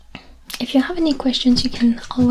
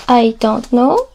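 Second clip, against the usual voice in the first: I don't know said slowly; slow and clear; 4 dB louder, slower than usual. Shown as a demonstration. Teacher translates for students slowly. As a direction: spell it out slowly. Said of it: "Je ne sais pas".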